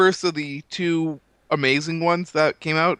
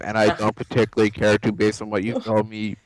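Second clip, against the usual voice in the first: alien voice; 5 semitones lower than usual. Acted. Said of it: "talking in an alien voice".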